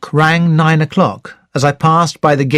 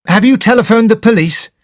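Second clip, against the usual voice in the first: a raised, pressing question; demanding; 7 semitones higher, 4 dB louder than usual. Acted. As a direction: demand an answer from the butler. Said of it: "I demanded".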